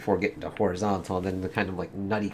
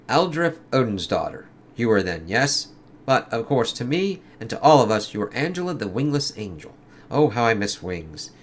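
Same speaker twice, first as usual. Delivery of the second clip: lightly acted comic dialogue, in character; comic characters voiced; 2 semitones higher, 3 dB louder than usual. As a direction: read it like a dramatic comic scene. Reads Rylia's speech.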